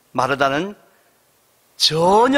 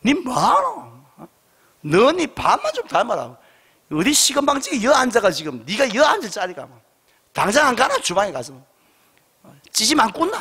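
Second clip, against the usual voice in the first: a hammed-up Gyeongsang scolding, pitched higher at the start; mock scolding in dialect; 3 semitones higher than usual. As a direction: glare and scold her back to the kitchen. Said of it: "마리아를 보고 째리 보면서". (경상도 사투리로 과장되게 꾸짖듯)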